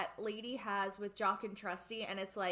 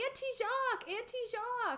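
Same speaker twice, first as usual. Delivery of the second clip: puppy voice; 13 semitones higher than usual. Retold or imitated. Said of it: "And they're all".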